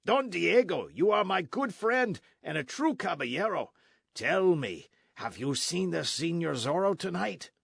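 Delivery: hearty soldier, a touch loud; eager sergeant. A narrator's reading. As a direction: greet a good friend heartily. Sergeant greets friend eagerly.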